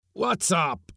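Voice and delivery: high, loud startled call; alarmed cry. A narrator's reading. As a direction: shout it up the ladder in alarm. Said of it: "cried the skipper".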